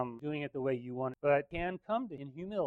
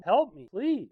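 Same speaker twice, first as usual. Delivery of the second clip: higher, louder acted plea; retold cry to God; 6 semitones higher, 7 dB louder, slower than usual. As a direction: call out for help as if crying. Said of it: "I'm crying out to God".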